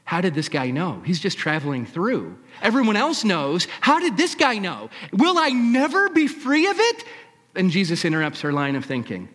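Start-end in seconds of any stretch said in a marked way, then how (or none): 2.6-7.0 higher and louder, climbing distress; rising panic. Acted. Woman fearing her past is exposed, rising panic. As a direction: let the panic build upward. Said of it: "voice quivering, heart pounding".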